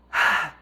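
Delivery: audible sigh. Real, not acted. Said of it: "choose to do a sigh like that".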